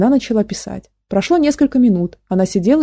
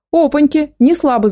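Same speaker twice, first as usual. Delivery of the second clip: higher-pitched amazed exclamation; surprised cry; 7 semitones higher than usual. A narrator's reading. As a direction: exclaim at an unexpected sight. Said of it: "закричал он при виде Гошки".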